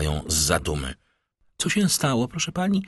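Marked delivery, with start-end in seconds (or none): 1.6-2.8 higher-pitched question, jolted from thought; startled question. A narrator's reading. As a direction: ask as if pulled out of a reverie. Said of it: "wzdrygnąwszy się".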